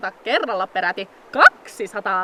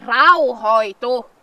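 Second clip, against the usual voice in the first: slow, loud command to calm; slow emphatic order to calm down; firm calm-down; 5 dB louder, much slower than usual. Acted. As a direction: drag the word out to settle them. Calming panicked companion.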